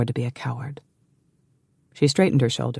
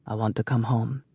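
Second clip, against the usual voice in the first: a softer, weary confession; heavy-hearted; 3 semitones lower, 5 dB quieter than usual. Acted. Brother admits to his sister he wants home, heavily. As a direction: let the longing weigh it down. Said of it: "he said heavily".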